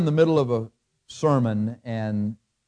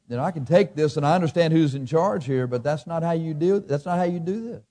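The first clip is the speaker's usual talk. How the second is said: raised pitch, indignant protest; still upset; 6 semitones higher than usual. Real, not acted. Preacher objecting to how guards acted, real lingering upset. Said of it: "Do I sound like I'm still upset about it?".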